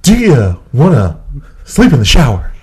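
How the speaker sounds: halting Shatner pauses between words; William Shatner impression. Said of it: "your best William Shatner impression".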